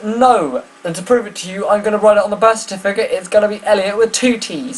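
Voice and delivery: high, fast mock indignation; defiant woozy mum, pitched high and rushed; raging insistence. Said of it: "She was raging".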